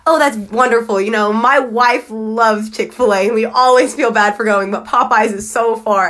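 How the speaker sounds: put-on slow, drawn-out Southern cashier accent; a sweet Southern lady chatting at the till. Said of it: "She had a very strong Southern accent".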